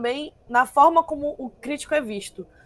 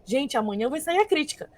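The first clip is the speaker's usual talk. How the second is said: mock panic, jumping higher and louder at the end; pânico imitado; 4 semitones higher, 5 dB louder than usual. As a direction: act out a company's rising panic. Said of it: "era um pânico geral". (pânico encenado, subindo no fim)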